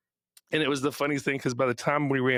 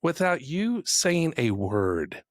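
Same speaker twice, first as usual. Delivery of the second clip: higher, slower mock outrage; retold indignant scolding; 5 semitones higher, slower than usual. Tennis dad rebukes the screaming fans, higher and slower in retold indignation. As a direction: scold them like an offended parent, drawn out.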